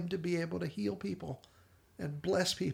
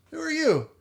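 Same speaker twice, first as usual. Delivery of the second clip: laughing surprise; 13 semitones higher, 7 dB louder than usual. Retold or imitated. Retelling Ema waking, laughing.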